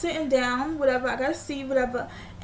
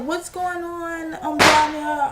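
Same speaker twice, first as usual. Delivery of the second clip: drawn-out call, louder at the end; mom calling out; 3 semitones higher, 5 dB louder, much slower than usual. Retold or imitated. Guy's mom asking what's going on, calling out. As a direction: imitate a mother calling through the house.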